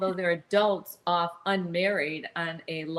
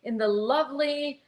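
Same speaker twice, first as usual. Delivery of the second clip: higher, slow announcer pitch; game show host; 5 semitones higher than usual. Retold or imitated. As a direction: sell the prize like an old TV host. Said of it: "I think he even says".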